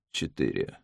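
faint, low and soft; barely audible little voice; small quiet voice. A narrator's reading. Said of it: "а потом тихий голосок". (тихий слабый голосок)

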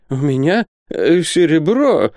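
high, halting, frightened stammer; frightened babbling. A narrator's reading. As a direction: falter in fear as if facing robbers. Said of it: "пролепетал Исаак Хакабут".

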